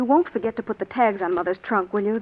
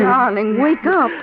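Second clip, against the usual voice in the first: urgent wake-up call; 3 semitones higher, 7 dB louder, much slower than usual. Acted. Wife rousing husband from a nightmare, urgent and loud. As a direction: shake him awake with your voice.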